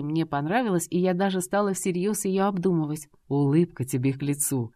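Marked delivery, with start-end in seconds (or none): 3.3-4.7 lower, rasped compliment; hoarse rasp. A narrator's reading. Husband rasps a compliment to his wife, hoarse. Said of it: "прохрипел Роберт".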